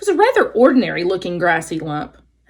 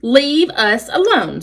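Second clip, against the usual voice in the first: squeak; 4 semitones higher, 3 dB louder, slower than usual. Acted. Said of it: "squeaked Dart".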